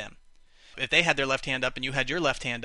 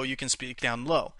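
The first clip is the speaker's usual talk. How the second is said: low pitch. Shown as a demonstration. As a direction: drop down into a low voice. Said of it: "Or if they're very low".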